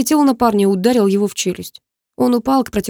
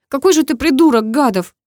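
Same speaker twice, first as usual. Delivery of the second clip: put-on high, louder girl's insult; angry girl; 6 semitones higher, 4 dB louder than usual. A narrator's reading. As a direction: scold him, pitched up. Karina furious at Max. (высокий девичий голос, сердито)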